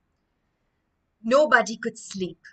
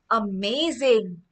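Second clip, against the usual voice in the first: amazed; slower than usual. Acted. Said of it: "he said".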